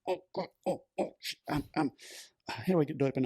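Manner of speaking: high, panicked inner voice; a hammed-up frantic fluster. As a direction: replay the rising panic at the pump. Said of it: "getting more and more frantic".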